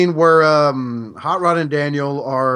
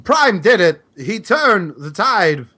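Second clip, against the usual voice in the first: Cup; 5 semitones higher, 4 dB louder, much slower than usual. Retold or imitated. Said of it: "Cup's like".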